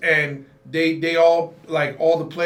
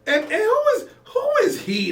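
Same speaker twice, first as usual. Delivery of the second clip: laughing. Real, not acted. Laughing outrage.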